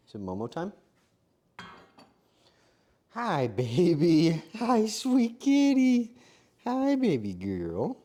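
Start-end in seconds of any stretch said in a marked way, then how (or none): 3.1-4.4 slow drawn-out cooing greeting. Real, not acted. Cooing to the cat. 4.6-8.0 slow, high cooing at a kitty. Real, not acted. Cooing to the cat.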